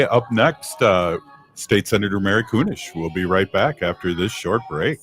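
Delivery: ordinary talk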